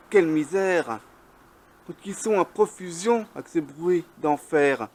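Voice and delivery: measured verse reading, line by line; poem recitation. Acted. Poet reciting on noisy cockchafers in flight, measured declamation. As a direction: recite your poem with deliberate pauses between lines.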